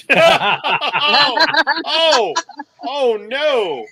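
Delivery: high, loud mock alarm; mock panic. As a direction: squeal in fake horror. Player reacts in mock panic.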